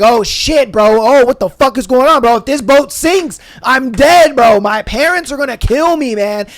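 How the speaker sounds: mock panic as the boat sinks; panicked bro. Teen to friends as boat sinks, loud panic.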